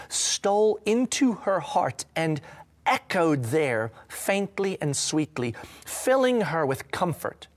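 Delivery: reading the book aloud, slow in places; story reading. Acted. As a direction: read it like a story to the church.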